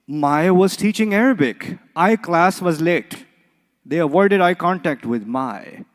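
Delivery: slow, careful wrong-pronoun demo; deliberately wrong pronouns. Shown as a demonstration. Teacher slowly reading a wrong sentence to the class. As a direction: read it out slowly to show the mistake. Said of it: "So maybe I should say".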